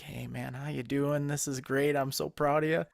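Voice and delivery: mock upbeat coach chatting up the kids, rising toward the end; hammed-up friendly encouragement; playfully overdone coach cheer; cheesy pep talk.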